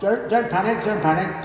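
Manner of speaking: put-on high, hearty old RAF chap; rally the chaps like a cheery ex-RAF officer; jolly RAF type. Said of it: "He goes".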